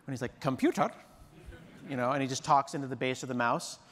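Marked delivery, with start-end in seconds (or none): 0.4-0.9 lightly imitated film engineer calling a machine; Scotty. Engineer addressing a computer through its mouse, playful impression. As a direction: call out to the computer in character. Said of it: "Scotty in Star Trek four, when he's like".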